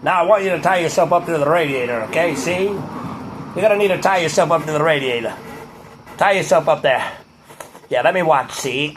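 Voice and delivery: lightly voiced mobster giving orders; old-time gangster. Tough guy voice, "see?" tag.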